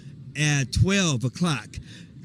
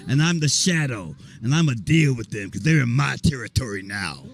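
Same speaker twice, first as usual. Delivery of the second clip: movie monster; 4 semitones lower than usual. Acted. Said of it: "I play the monster".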